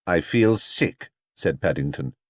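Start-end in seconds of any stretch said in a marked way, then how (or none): 0.1-1.1 feeling sick. Acted. Bear queasy after the lift.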